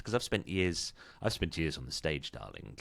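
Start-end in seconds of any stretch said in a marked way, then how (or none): 2.3-2.8 theatrical luvvie. Acted. Luvvie stage actor aside.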